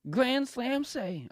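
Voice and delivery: slow, high, drawn-out ring announcer call; hammed-up entrance announcement.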